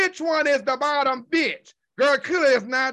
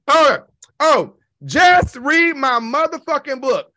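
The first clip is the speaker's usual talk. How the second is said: mocking jab; 6 dB louder, slower than usual. Real, not acted. Mocking a rival's name in rant.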